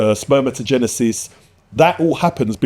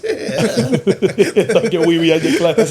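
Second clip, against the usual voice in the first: slow, drawn out through laughter; slow laughing; 3 semitones higher, much slower than usual. Retold or imitated. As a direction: stretch it out while laughing. Repeats saying slowly, laughing.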